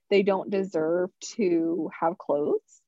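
drawn-out, mildly sarcastic statement. Real, not acted. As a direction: say it slowly, tongue in cheek. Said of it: "saying that in a sarcastic tone".

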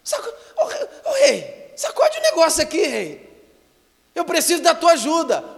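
high, loud, wailing plea to the king; desperate woman crying out. Retold or imitated. Starving mother begging the king for help, wailing loudly. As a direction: cry out to the king, voice breaking. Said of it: "A mulher gritou".

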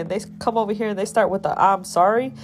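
outraged venting at the smiling doctors; retold angry rant. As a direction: tear into the doctors, quick and rising.

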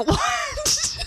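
high, startled squeak of disbelief; shocked what. Retold or imitated. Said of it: "And he's like".

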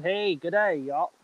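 lightly put-on American accent slipping into Australian; badly faked American accent with an Aussie twang; a hint of cheesy American accent; attempted American accent. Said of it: "American accent".

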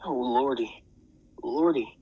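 frightened cry. A narrator's reading. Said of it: "shivered and shook and cried".

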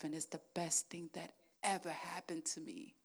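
soft unvoiced whisper; whispered testimony to the church. Real, not acted. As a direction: hush it like a secret.

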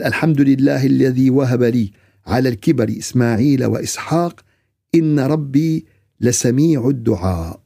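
measured recital, slowing on the last phrase; scripture recitation. Real, not acted. Preacher reciting a prayer of thanks for sons, measured recitation. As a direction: recite the verse solemnly, drawing out its close.

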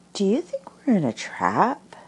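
nervous Piglet. Acted. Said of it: "he went on nervously".

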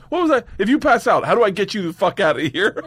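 high, loud mock indignation; retold exasperated retort. Bar guy puzzling over removing a passed-out man, mock exasperation. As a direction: act out a baffled, worked-up protest. Bartender's incredulous retort acted out.

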